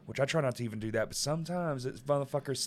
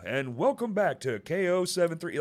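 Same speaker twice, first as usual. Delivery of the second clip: lightly hammed-up radio welcome; mock an old-time station announcer; a touch of radio DJ; old radio host; 6 semitones higher than usual. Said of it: "YouTube is old radio".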